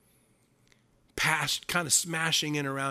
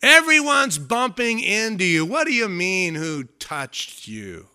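higher, slow, laughing disbelief; disciples scoffing; 6 semitones higher, 8 dB louder, slower than usual. Retold or imitated. Disciples to Jesus, amused disbelief. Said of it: "they go".

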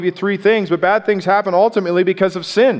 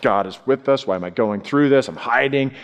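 low, quiet, fed-up grumble as Gideon; a touch of weary frustration, kept low; frustrated; 6 semitones lower, 3 dB quieter than usual. Retold or imitated. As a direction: mutter it like a man worn down by hiding. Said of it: "and he's frustrated".

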